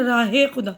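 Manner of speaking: راہ خدا with the ہ of راہ fully sounded before the joining e; راہ خدا pronounced with the h audible; full h sound. Shown as a demonstration. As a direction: say راہ خدا as raah-e khuda, the h clear. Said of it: "ہے کی آواز دیکھیے پوری آ رہی ہے".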